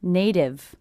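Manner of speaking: "Native" with the T tapped like a D; flap T. Shown as a demonstration. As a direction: say "Native" as "nay-div". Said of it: "I hear this T as a D".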